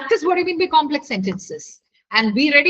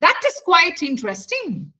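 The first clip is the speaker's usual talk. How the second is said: up-and-down tune, "interesting" falling at the end; vary the tune, settling down on "interesting"; mixed tone; 3 semitones higher than usual. Shown as a demonstration. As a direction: pitch rises and falls across "That is quite interesting". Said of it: "My tone is mixed".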